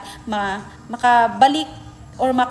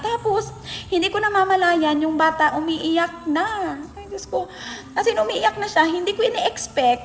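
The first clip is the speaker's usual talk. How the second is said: surprised exclamation; 7 semitones higher than usual. Real, not acted. Shocked that the student cried.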